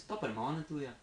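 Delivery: stock-phrase Irish accent. Shown as a demonstration. Showing the only Irish he can say, Irish accent. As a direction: toss out a token Irish accent. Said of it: "All I can say in Irish".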